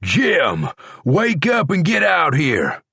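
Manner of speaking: a mild read-aloud yell. A narrator's reading. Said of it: "George shouted".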